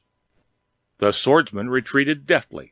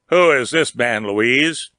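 a louder, demanding challenge; 4 dB louder than usual. Acted. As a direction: confront her, hard and loud. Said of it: "he demanded".

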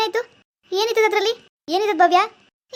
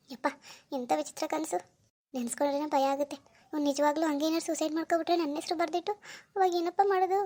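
shaken murmur; 5 dB quieter than usual. Acted. Daughter waking from a bad dream, talking softly to herself, shaken. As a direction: brood quietly to yourself after the nightmare. Daughter broods alone after nightmare.

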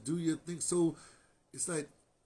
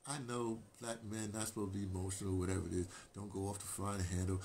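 usual speaking voice

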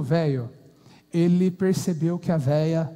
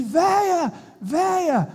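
shouting for his wife; 9 semitones higher, much slower than usual. Acted. Old man calling his wife from the yard, shouting. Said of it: "gritou com ela".

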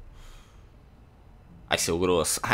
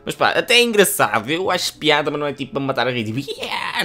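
amused excitement; 6 semitones higher, 6 dB louder, faster than usual. Real, not acted. Laughing reaction to the bot.

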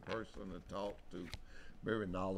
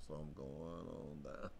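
talking slow; 5 semitones lower, 9 dB quieter than usual. Real, not acted. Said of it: "Talking slow 'cause Justin didn't get me my coffee".

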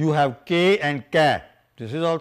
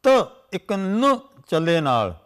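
recited scripture line; 4 semitones higher than usual. Shown as a demonstration. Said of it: "You see, then".

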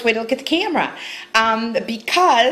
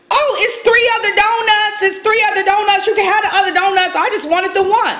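imitating boyfriend; 6 semitones higher than usual. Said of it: "He was like".

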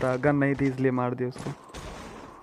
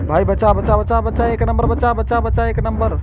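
high, loud frantic pleading; raging gamer; 6 semitones higher, 7 dB louder than usual. Real, not acted. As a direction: yell desperately for rescue. Begging teammate to save him. (घबराकर ज़ोर से बचाने की गुहार)

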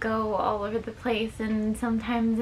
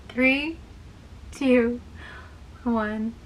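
countdown; much slower than usual. Pretend. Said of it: "Let's count down from three".

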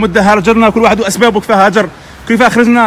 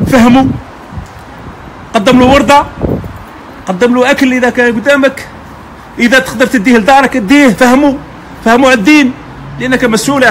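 passionate urging; 3 semitones higher than usual. Real, not acted. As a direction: urge them hard to teach others. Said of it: "واسمحوا لنا على الانفعال". (حث بحماس وصوت عالٍ)

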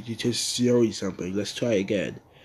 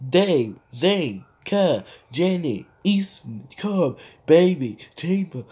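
faster run; 4 semitones higher, 4 dB louder than usual. Shown as a demonstration. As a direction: rattle the names off quickly. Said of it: "Let's fast".

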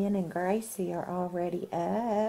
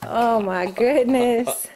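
surprised; 3 semitones higher, 9 dB louder, slower than usual. Real, not acted. Mom reacts to the baby.

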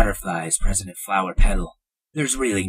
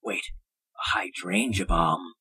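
awed unvoiced whisper; 7 dB quieter than usual. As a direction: breathe the question in awe. General reacts in awe.

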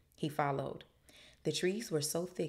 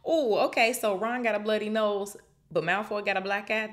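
loud, high-pitched lively commentary; excited reaction; 6 semitones higher, 8 dB louder than usual. Real, not acted. Reader reacts to Ron and Malfoy's injuries, excited. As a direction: jump in loudly with a rising ooh.

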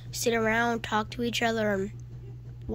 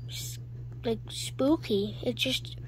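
spooky whisper; 5 dB quieter, slower than usual. Acted. Spooky mood after Helpy died.

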